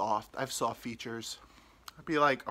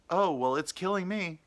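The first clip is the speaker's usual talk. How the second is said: imitated old lady; 6 semitones higher, 5 dB louder than usual. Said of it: "this ninety-year-old lady".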